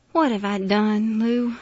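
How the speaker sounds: slow, loud, heavy-hearted appeal; drawn-out cry of despair; anguished lament. A narrator's reading. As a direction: plead in grief, drawing out each word. Miss Emma laments, about to cry.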